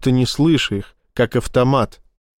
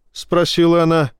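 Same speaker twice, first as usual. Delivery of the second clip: ordinary delivery, nothing marked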